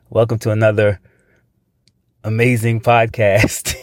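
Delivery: amazing said slowly and stretched; slow stressed amazing. Shown as a demonstration. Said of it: "every time you use that word amazing".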